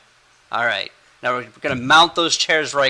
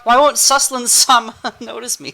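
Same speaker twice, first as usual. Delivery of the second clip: high pining voice on "Suslin-sama", a bit louder; lovestruck anime girl; 10 semitones higher, 4 dB louder than usual. Acted. Harem girl swooning over her oblivious hero, high and giggly.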